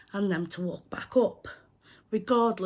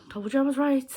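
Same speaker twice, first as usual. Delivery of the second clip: smug; 5 semitones higher than usual. Retold or imitated. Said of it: "I got very smug at that point".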